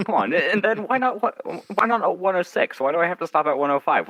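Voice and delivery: high, whiny mock protest; mock indignant. Guest bargaining with fate, high mock protest.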